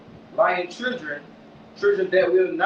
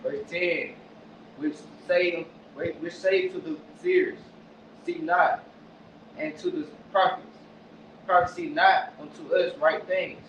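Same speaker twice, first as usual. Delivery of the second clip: read slowly. Shown as a demonstration. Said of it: "Come on, slow down".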